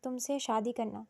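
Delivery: soft, slow and calm; calmly. Acted. Ahil calmly naming what he wants, soft and slow. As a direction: coolly state it. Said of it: "اطمینان سے بولا".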